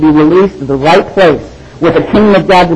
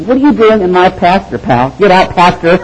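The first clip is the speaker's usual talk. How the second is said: shooing a bull; 2 semitones higher than usual. Retold or imitated. Preacher retelling shooing a bull, ending in a mock yell. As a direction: chase the bull off your pasture. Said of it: "I'm like".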